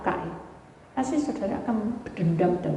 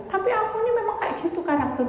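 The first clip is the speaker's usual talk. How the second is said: quick excuse; 11 semitones higher, much faster than usual. Retold or imitated. Congregant excuses herself.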